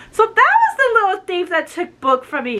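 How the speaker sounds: a hint of a sneering villain; gloating villain. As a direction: accuse him like a gloating villain. Possessed Tala gloats about Roger.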